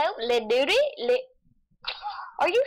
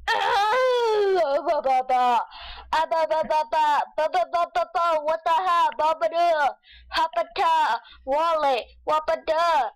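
silly babbling; 3 semitones higher than usual. Pretend. Babbling nonsense while playing.

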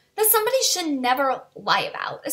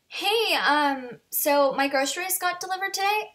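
higher, lightly imitated hesitant question; tentative roommate; 5 semitones higher than usual. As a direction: fish for an answer, pitch climbing at the end. Roommate asks cautiously about groceries.

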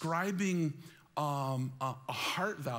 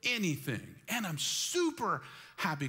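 mock contented saver; 3 semitones higher than usual. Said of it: "where you're like".

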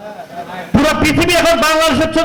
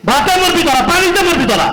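raised, scornful jabs on মরবি; heated taunt; 5 semitones higher than usual. Real, not acted. Actor at a press event taunting YouTubers, raised scornful voice. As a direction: spit out the threat, pitched up.

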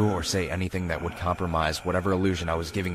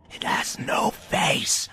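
higher, louder, slow unnerved whisper; 12 semitones higher, much slower than usual. A narrator's reading. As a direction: let the fear creep in. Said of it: "louder than before and slightly more unnerved".

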